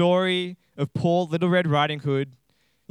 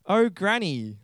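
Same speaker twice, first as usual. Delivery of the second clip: put-on higher girlish voice, falling tune; Little Red Riding Hood; 4 semitones higher, slower than usual. Girl addresses disguised wolf as Granny, lightly girlish. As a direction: play a wondering young girl lightly. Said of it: "Little Red Riding Hood said".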